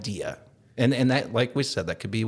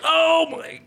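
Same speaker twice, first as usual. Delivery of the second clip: slow, pained groan; doubled-over groan; groaning man; 5 dB louder, much slower than usual. Retold or imitated. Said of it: "the guy doubles over like".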